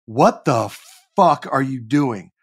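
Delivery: slow, deliberate self-scolding; mock self-yelling. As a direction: chew yourself out word by word, slowly. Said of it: "yelling at myself".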